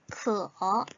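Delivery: 크어 said with a clear falling-rising tone; crisp Chinese word demo; Chinese model word. Shown as a demonstration. Teacher models the word for thirsty. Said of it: "어떤 의미죠".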